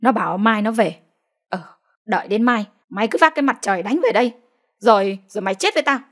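fast, clenched-teeth threat; seething through teeth. Acted. Furious mother promising her son a reckoning, fast and through gritted teeth. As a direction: hiss the threat at the absent son. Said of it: "Bà giận dữ nghiến răng nói".

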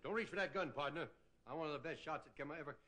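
a hint of a tough lawman facing down a gunman; John Wayne. A comic doing a light John Wayne for the crowd. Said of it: "It's John Wayne in pictures".

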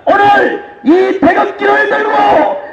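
shouting political rally speech; roaring rallying speech. Real, not acted. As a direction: rouse the crowd at full force.

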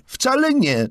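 put-on very high, loud protest from the boy; child's eager call. A narrator's reading. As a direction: call out that he is not tired. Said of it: "zawołał Charlie". (dziecięcy okrzyk protestu)

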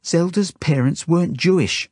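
high, urgent insistence; frantic. A narrator's reading. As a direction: desperately try to convince the captor. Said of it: "I say frantically to the woman".

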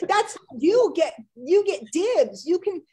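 words breaking up with laughter; laughing. Real, not acted. Laughing as she teases Tina about asking questions. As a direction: talk through real giggles.

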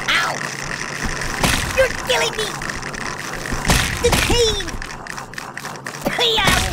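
high, hammed-up cries of pain; agonized outcry. Game character being hurt by the player, hammed-up agony. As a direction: wail as if being tortured.

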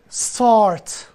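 استارت as one syllable "start", no vowel before the s; slow "start" with an initial s-t cluster; original foreign pronunciation. Shown as a demonstration. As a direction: say استارت the foreign way, opening straight on "st". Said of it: "الگوی هجاییش با فارسی همخونی نداره".

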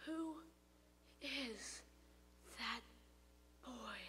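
very soft, dropping to a murmur; muttered. Acted. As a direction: mutter it almost inaudibly. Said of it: "muttered Grandmother".

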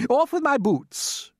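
high, loud, drawn-out centipede shout. A narrator's reading. Centipede about to swim with boots on, shouting. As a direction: shout it out in alarm. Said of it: "shouted the centipede".

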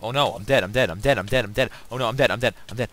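panicked catchphrase. Real, not acted. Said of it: "you watch Toby Games too much".

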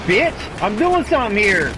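loud, high furious hey hey; angry yelling. Real, not acted. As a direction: yell at him in real anger. Yelling at enemy player.

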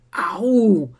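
pained, drawn-out "ow"; put-upon little cry of pain; grumbled ow. A narrator's reading. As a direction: grumble out a mild hurt yelp. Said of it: "brummte der nun".

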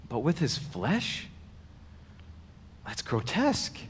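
incredulous questioning, lightly acted; shocked disbelief. The Jews argue over Jesus's words, lightly acted disbelief. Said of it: "it was shocking to them".

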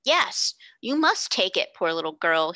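put-on a small boy who will not take no; insisting stoutly. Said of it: "he insisted stoutly".

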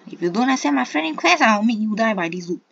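fast, loud threat. Real, not acted. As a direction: threaten him loudly.

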